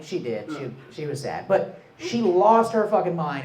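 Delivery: ordinary talk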